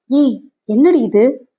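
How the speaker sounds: mother's slow, startled question; mildly acted shock, drawn out. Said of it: "அதிர்ந்தாள்". (அதிர்ச்சியுடன் கேட்கும் அம்மா)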